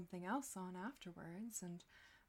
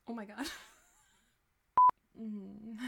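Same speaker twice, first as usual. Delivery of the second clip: usual speaking voice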